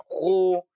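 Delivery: "Kho" with pursed lips and closed vowel; bibir monyong. Shown as a demonstration. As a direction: pout through a drawn-out "Kho". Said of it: "apalagi sampai monyong-monyong". ("Kho" dengan bibir monyong)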